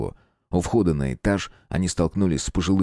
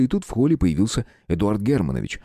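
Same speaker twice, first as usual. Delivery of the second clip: plain reading voice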